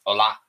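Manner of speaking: Hola with the A stressed; Hola, accent on the last A. Shown as a demonstration. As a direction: lean on the final A of Hola. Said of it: "the accent is on the A".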